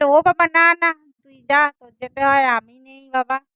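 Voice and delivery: acted, loud nervous protest; alarmed refusal. Frightened refusal to board the ride. (ভয় পেয়ে জোর গলায় আপত্তি)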